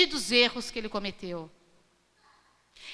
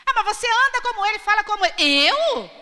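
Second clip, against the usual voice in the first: accuser's challenge; 8 semitones higher, 6 dB louder than usual. Retold or imitated. Accuser and Peter acted.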